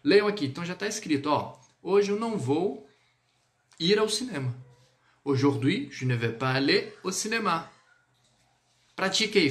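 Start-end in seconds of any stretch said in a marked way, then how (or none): 1.8-4.5 "Hoje eu não vou" rising, pause, "ir ao cinema" falling; higher model tune, lift "vou", drop on "cinema"; Portuguese intonation model. Shown as a demonstration. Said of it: "Utilizando a mesma entonação do português". 5.2-7.7 "Aujourd'hui" rising, pause, "au cinéma" falling; French sentence with a two-part up-then-down tune; transferred intonation. Shown as a demonstration. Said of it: "você só vai transferir pro francês".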